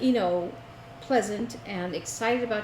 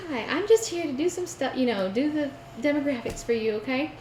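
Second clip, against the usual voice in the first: imitating the registrar; 6 semitones higher than usual. Mimicking hospital registrar girl.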